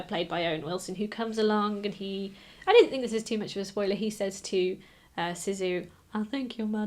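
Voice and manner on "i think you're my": put-on Kentucky accent. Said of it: "'cause he's got, you know, a Kentucky accent".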